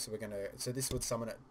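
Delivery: mic bump while talking; tapping the mic. Real, not acted. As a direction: knock on the microphone mid-sentence. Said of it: "Oop, I just tapped the microphone".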